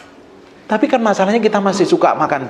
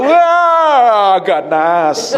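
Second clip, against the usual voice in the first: high, loud mock roar; hammed-up ferocious yell; fierce outburst; 6 semitones higher, 4 dB louder, much slower than usual. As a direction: flare up on one long cry. Mimes fierce reaction to self-defence.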